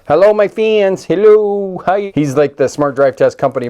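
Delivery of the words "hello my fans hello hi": high, loud silly dog voice greeting fans; dog's voice. Pretend. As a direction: pretend the dog waves hello in a goofy high voice. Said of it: "Are you saying hi to all your fans?".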